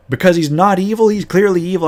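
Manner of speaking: indignant protest. Retold or imitated. Paladin player protesting to the GM, high indignant objection. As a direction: argue it like it's obvious.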